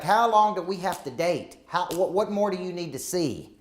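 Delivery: mock exasperated wife, pitched a bit up; mildly worked-up questioning; retold heated demand. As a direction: plead impatiently, imitating an upset partner. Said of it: "we have this very heated discussion".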